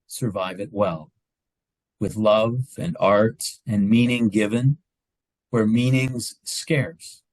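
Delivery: measured recital with long pauses between lines; poem reading. Acted. Speaker sharing an Irish poet's poem with the meeting, poem reading. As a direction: read it as a poem, letting each line land.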